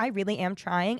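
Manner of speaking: plain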